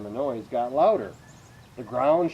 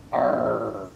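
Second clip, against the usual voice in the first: imitated roar; 3 semitones lower than usual. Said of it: "Elephants do not sound like that".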